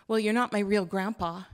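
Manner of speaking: put-on a child pushing back at grandpa; child Hazel, defiant.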